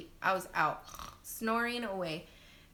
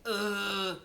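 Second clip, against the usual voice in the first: J breathing grunt; 3 dB louder than usual. Shown as a demonstration. Mom demonstrating J breathing for pushing, sustained grunt. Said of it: "the only way I could explain it".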